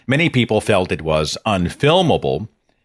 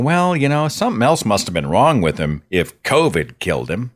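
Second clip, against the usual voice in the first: mock dismissal. Voicing dismissive people.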